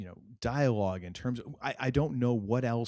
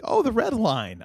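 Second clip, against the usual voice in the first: excited recognition; 11 semitones higher, 8 dB louder than usual. Retold or imitated. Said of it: "Kaylin's like".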